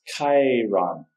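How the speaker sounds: Chiron drawn out slowly as KAI-ron; "Chiron" with a hard K and long I; careful pronunciation. Shown as a demonstration. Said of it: "that's pretty confusing".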